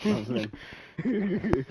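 slow growled words. Pretend. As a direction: growl it out slowly. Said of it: "Why'd you growl?".

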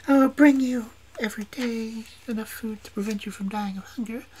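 high whispered threat; menacing whisper. A narrator's reading. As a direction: witch whispering cruel terms. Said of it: "said in an angry voice".

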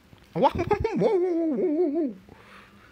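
high, loud disbelieving laugh; loud, high frustrated laughter; exasperated laugh. Real, not acted. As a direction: burst into an incredulous cackle. Bursts out at bad play.

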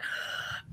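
quick shocked intake of breath; sharp gasp. Retold or imitated. Recalling the moment she held the costly jewel, a gasp. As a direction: gasp at the price. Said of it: "And I was like".

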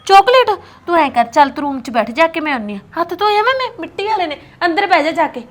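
put-on loud calling to a child. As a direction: call the kid in from across the yard. Calls out to child outdoors.

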